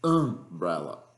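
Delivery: umbrella said slowly with a closed A sound; umbrella, English. Shown as a demonstration. Teacher demos umbrella to the class, slow and careful. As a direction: stretch out umbrella, first vowel like a closed Portuguese A. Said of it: "Esse A fechado".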